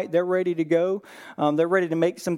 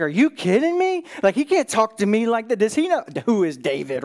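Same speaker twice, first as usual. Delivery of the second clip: angry; 3 semitones higher than usual. Retold or imitated. David reacts to Nabal's insult, indignant and incredulous. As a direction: act out an offended leader's outburst. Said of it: "David is angry".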